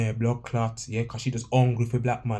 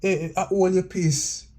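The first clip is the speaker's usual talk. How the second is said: imitating the guest; 7 semitones higher than usual. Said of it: "the guest had to say".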